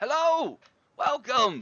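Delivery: very high, friendly, welcoming little gnome voice. Narrating a scene to players, voicing the gnome who greets them: friendly gnome voice. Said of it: "a very uh, friendly gnome man".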